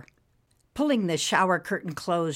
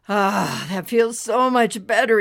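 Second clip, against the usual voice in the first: relieved sigh; 4 semitones higher, 7 dB louder than usual. Acted. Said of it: "sighing and breathing deeply".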